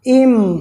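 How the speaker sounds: इम said alone with a held "m"; isolated syllable demo. Shown as a demonstration. Teacher breaking a word into syllables, इम set apart. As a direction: sound out इम as one separate syllable. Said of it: "pronounce करिए तो क्या आ जाता है".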